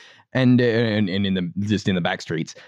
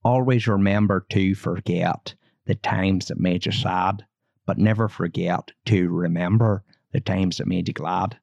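put-on a light Belfast accent, reciting grandad's saying; a gentle, unhurried imitation of a Belfast accent; a fond, understated Belfast accent quoting a grandfather; 3 semitones lower than usual. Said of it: "those vowel sounds are real, real Belfast".

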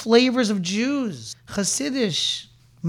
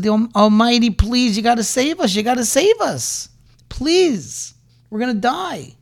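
higher, louder pleading to be saved; desperate pleading prayer; 4 semitones higher, 4 dB louder than usual. Retold or imitated. The people beg God at the sea, desperate pleading. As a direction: beg the Almighty to save you from dying.

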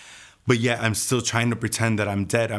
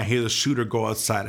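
normal talking voice

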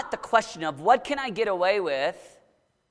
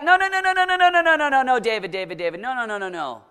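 mock rebuttal; faster than usual. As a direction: wave the objection away. Voicing the rebuttal to David.

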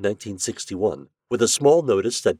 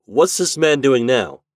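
slow, deliberate and louder, pressing; Shandor's voice; 6 semitones higher, 8 dB louder than usual. A narrator's reading. Shandor presses the clerk about Frank Mariel, deliberate. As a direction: ask it slowly, pressing for an answer.

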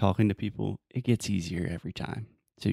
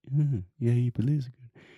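trying out the Brazilian way of saying it, a touch higher; imitating Brazilian accent; 3 semitones higher than usual. Shown as a demonstration. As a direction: copy the local greeting, pitch up a little. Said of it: "he said that a little differently than I would".

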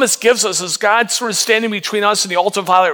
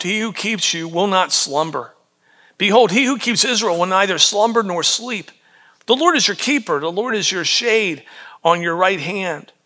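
measured, reverent reading of the psalm; scripture reading. Acted. Pastor reading the psalm to the congregation, reverent. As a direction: read the verses steadily, letting them land.

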